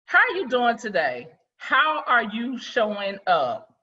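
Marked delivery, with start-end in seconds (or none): 1.6-3.7 slow, deliberate question, each word weighed; measured, thoughtful asking. Shown as a demonstration. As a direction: ask it slowly, letting it sink in. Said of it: "a simple question".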